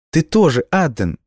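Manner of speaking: high, eager exclamation; exclaiming. A narrator's reading. Girl insists to dying boy he'll live too, high exclamation. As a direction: cry it out earnestly. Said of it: "воскликнула девочка".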